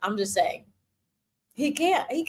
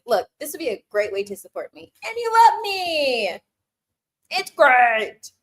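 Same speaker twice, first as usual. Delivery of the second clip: breezy matter-of-fact; 3 semitones higher, 4 dB louder than usual. Shown as a demonstration. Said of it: "And say it just like that".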